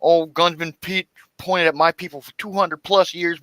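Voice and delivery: imitating the woman. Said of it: "'cause she's talking about".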